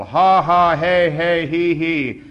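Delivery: high ha-has sliding into he-hes; loud performed laughter. A narrator's reading. Narrator acts the other man's laughter, loud and high. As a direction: belt out varied laugh syllables, easing off. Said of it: "louder than anybody".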